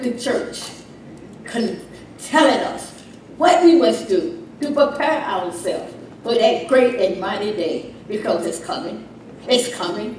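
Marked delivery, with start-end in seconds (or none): none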